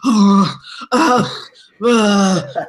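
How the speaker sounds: loud, drawn-out "uh" noises; imitated puzzled grunts. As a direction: mimic his baffled grunts. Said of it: "he gives me one of those".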